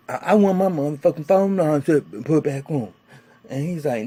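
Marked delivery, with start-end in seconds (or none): 0.1-2.9 loud, insistent demand; angry demand. Retold or imitated. Benny confronting a man about his phone line, angry demand. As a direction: demand it with force, acting him out.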